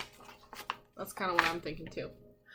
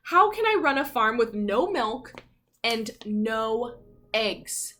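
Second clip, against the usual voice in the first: furious farmer; 3 semitones higher, 4 dB louder than usual. Acted. A hint of Farmer Brown ranting about his strikers. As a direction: storm at the absurd notes. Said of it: "Farmer Brown was furious".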